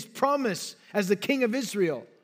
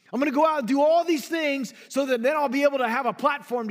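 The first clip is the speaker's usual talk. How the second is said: fast, higher-pitched imitation of eagerness; mock enthusiasm; 5 semitones higher, 4 dB louder, faster than usual. Preacher mimicking someone planning to sin, mock-eager. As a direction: rattle it off high, imitating an eager schemer. Mocks a would-be sinner's plan.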